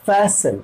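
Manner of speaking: फैशन said clearly, fæ then shən; teacher models फैशन for the class to copy. Shown as a demonstration. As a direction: say फैशन slowly for learners to repeat. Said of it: "मेरे साथ बोलिए".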